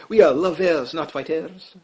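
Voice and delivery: lightly put-on French accent; a hint of hammy French; bad French accent. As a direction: badly fake a French accent. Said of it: "my bad Fre-, French accent".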